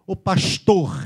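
pastor with hushed "sh" and guttural R; exaggerated Rio "pashtohr"; carioca accent. Shown as a demonstration. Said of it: "O carioca fala um R bem puxado e os S's".

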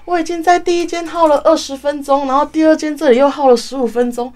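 retelling her own dread of losing the order; panicked thought. Retold or imitated. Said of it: "然后我就想说".

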